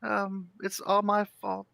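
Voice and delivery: small guilty voice, dragging each word; little gnome woman. Acted. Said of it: "and she goes".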